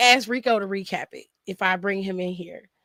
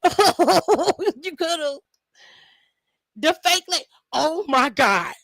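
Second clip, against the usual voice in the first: very slow, higher, drawn out through laughter; laughing; 6 semitones higher, 3 dB louder, much slower than usual. Real, not acted. Agreeing with the angry fan's comment, laughing. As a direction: laugh the words out.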